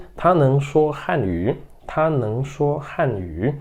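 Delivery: very slow, every syllable clear; slow model reading. Shown as a demonstration. Teacher modelling the sentence for students, very slow. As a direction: read it slowly for students to repeat. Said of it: "Depois nós temos aqui".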